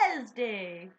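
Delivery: WEDNESDAY sounded out as spelled, wed-NEZ-day; playful mispronunciation. Acted. Friend showing her fun way of saying it, playfully sounded out. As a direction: say Wednesday playfully with every written letter voiced. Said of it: "like, a fun thing to say".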